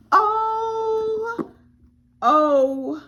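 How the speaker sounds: real overwhelmed joy; ecstatic. Real, not acted. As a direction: gasp it out, overwhelmed. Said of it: "I am ecstatic".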